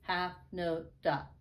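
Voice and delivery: slow, evenly spaced syllables; measured rhythm-drill delivery; counting note names. Shown as a demonstration. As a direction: say each word on its own beat. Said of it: "saying the kind of note, we say".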